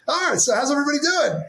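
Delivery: bright, high, cheery opener; upbeat greeting. Retold or imitated. Kyle greeting the client call, high and cheery. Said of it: "you were like".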